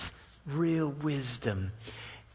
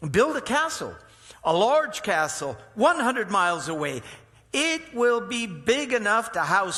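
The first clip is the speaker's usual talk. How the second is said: raised, higher, louder proclaiming; commanding royal adviser, loud and high; booming counselor; 7 semitones higher, 6 dB louder than usual. Acted. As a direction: declare the plan to the king with authority. Counselor advises king in story.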